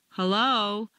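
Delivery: Hello with an unsure lift at the end; uncertain hello. Shown as a demonstration. Speaker before a crowd, Hello sounding unsure. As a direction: say Hello as if unsure anyone is there. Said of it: "it sounds so uncertain".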